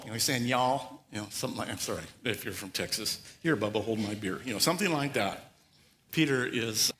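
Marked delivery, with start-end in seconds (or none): 0.5-1.0 southern drawl. Retold or imitated. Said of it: "He's got a southern drawl". 3.4-4.4 put-on southern accent. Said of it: "He's got a southern drawl".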